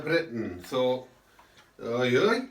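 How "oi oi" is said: mock Cardiff accent, lightly put on. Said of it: "in a Cardiff accent, of course".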